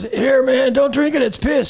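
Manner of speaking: high-pitched mock warning; passed-along warning. Guy hands it to the next one, warning him.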